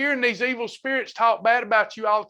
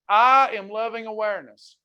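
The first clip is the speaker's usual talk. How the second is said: affirmation to repeat. Shown as a demonstration. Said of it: "You gotta say this".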